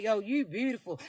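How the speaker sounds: low, soft smooth compliment; hushed, low sweet talk; a singer. Acted. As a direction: drop low and soft to woo. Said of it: "They gonna sound like a singer".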